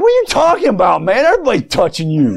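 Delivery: quick, high, scoffing disbelief; incredulous common talk. Retold or imitated. Peter scoffing at Jesus about the crowd, quick and high. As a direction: toss it off like Peter thinks it's absurd. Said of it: "they didn't talk fancy language".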